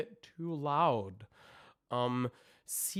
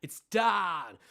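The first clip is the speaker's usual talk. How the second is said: 1 shouted demo; 4 semitones higher, 7 dB louder than usual. Shown as a demonstration. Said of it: "the math shape is not really there".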